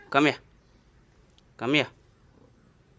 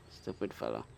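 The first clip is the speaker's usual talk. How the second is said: grumbled insult; 13 semitones lower, 7 dB quieter than usual. Real, not acted. Grumbling at cat.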